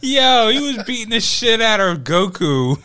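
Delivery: high, loud, hyped; excited. Real, not acted. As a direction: rave about the fight. Excited anime recap.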